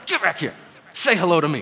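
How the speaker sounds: loud, high comic imitation of a scolding wife; mock yell. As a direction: playfully yell after someone walking away. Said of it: "She yells at them".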